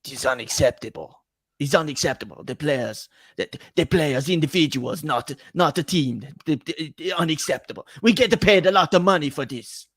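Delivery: put-on a light Italian accent, hamming up Antonio Conte's anger; mock Antonio Conte, with a touch of an Italian accent. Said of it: "my one".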